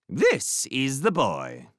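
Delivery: lightly voiced gruff master, slow; a hint of a gruff, awkward magician. A narrator's reading. Magician presenting his apprentice to guests, mildly gruff. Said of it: "the magician said gruffly".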